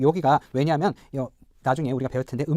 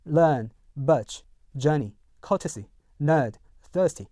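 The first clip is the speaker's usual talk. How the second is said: British accent, no R colour in learn, birch, nerd; British non-rhotic; much slower than usual. Shown as a demonstration. Teacher contrasts with American for learners, British non-rhotic accent. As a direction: say learn through thirsty with long R-less British vowels. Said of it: "R 색채를 없애겠죠".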